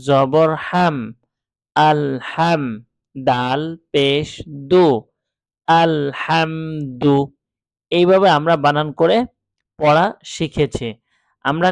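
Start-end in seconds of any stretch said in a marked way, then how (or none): 0.1-7.3 drawn-out আল হাম joined slowly after each spelled part; spelling then joining. Shown as a demonstration. Teacher joins the spelled syllables slowly into আল হাম দু. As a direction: stretch আল হাম, then add দু. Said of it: "আমরা উচ্চারণ করেছি হচ্ছে এভাবে".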